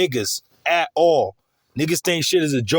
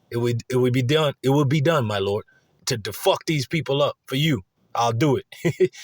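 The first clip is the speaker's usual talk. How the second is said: a lightly voiced servile beast, a little lower; beast answering the Lord; 3 semitones lower than usual. The demon dog agreeing to the Lord, lightly voiced lower. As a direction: murmur a devoted yes to your master.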